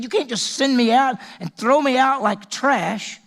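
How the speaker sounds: slow acted plea of a wronged princess; pleading Tamar. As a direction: plead not to be thrown away. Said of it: "She said".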